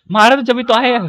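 words through a laugh; amused, laughing delivery. Real, not acted. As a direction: repeat it while cracking up. Laughs while repeating own remark.

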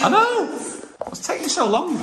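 loud high impatient cry; exasperated, high and loud. Real, not acted. Impatient waiting.

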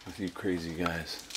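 imitating Laura. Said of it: "She's like".

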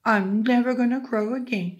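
lightly acted upset complaint; unhappy cockerel. A narrator's reading. Unhappy cockerel gives up crowing, mildly wailing. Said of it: "Cockerel was very unhappy".

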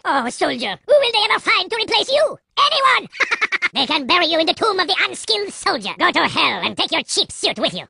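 suave, sneering French spy voice; a smug French assassin savouring every taunt; French-accented spy. Acted. TF2 Spy voice lines throughout.

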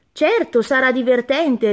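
a hint of an excited little frog; cheerful frog. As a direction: chirp a happy yes as Frog. Frog answers brightly.

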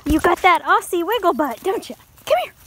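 high, bright cooing at the dog. Real, not acted. Owner coos at her wiggly Aussie, high baby talk.

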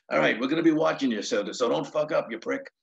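quick mock threat, easing off at the end; George Carlin. Carlin teases his opener before the show, mock warning. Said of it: "he's being real funny".

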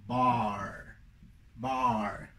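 low "bar" with a long open ah; pronunciation of "bar". Shown as a demonstration. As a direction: model "bar", mouth wide open on the ah. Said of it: "La primera es". ("bar" con A abierta, modelado para alumnos)

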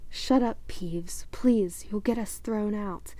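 hushed, slow pleading whisper; urgent whisper. Acted. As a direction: beg him to hush, under breath. Pleading to keep Peeves quiet.

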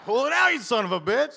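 high, loud acted-out dare; retold street-fight shout; mock yelled comeback. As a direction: holler it like a brawler calling a bluff. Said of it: "was yelling at the other guy".

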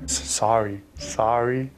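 Canadian "sorry", said on request; the Canadian "sorry" you're asked for; Canadian accent. Pretend. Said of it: "say something in a Canadian accent".

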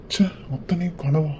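breathy disbelief under the breath; whispered dismay. Acted. Waking alone, he whispers to himself in disbelief. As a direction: whisper it, stunned it was only a dream. Realizes it was a dream.

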